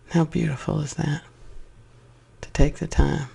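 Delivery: unhurried, spacious meditation delivery; guided meditation. Acted. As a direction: gently guide them into self-love, phrase by phrase. Leads a loving meditation.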